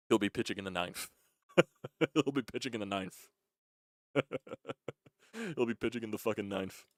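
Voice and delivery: chuckling through the words; laughing. Real, not acted. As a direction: crack yourself up as you say it. Laughing at own prediction.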